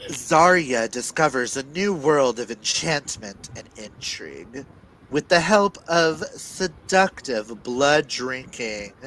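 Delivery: dramatic blurb reading with weighty pauses; dramatic telling. Acted. Reader performing the book synopsis aloud for listeners, dramatic. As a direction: read it like a movie trailer. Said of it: "you can't hear the reader's dramatic telling".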